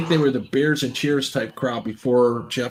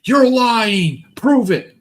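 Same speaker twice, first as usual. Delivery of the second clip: mock denial; 8 semitones higher, 5 dB louder, much slower than usual. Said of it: "And Ron goes".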